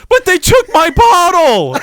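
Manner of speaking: high, slow wail through laughter; laughing mock wail. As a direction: wail the line while cracking up. Drunk man's lament, laughing.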